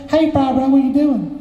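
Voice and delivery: high-pitched boss impression; Charlie. Boss checking on the worker at his bench, high-pitched. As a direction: call out in a very high caricature voice. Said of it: "Charlie's got this high-pitched voice".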